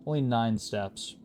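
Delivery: slow, loud sarcastic emphasis. Real, not acted. Player counting the cost of backtracking, sarcastic. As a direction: stretch it out with mock significance. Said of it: "I said that sarcastically".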